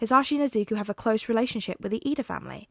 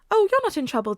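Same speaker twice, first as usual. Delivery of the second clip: higher, louder grandmotherly reassurance; higher voiced grandmother type; kindly old nurse; 10 semitones higher, 5 dB louder than usual. A narrator's reading. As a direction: soothe him like a kind old nurse. Recovery Girl's voice.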